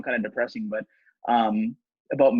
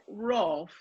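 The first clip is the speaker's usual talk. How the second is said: a dry mock bark, softer; a pretend English dog barking sarcastically, a bit higher and softer; sarcastic bark; 6 semitones higher, 5 dB quieter than usual. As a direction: bark it as if unimpressed. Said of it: "It's almost sarcastic".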